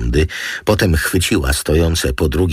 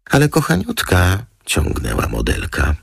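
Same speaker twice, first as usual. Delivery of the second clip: very high, cajoling model voice; high-pitched girlish pleading; wheedling model; 7 semitones higher than usual. A narrator's reading. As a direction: coax sweetly, pitched right up.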